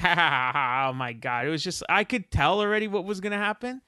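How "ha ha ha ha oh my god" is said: put-on ha-ha laughing fit; mock laughter. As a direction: fake belly laugh tailing into oh my God.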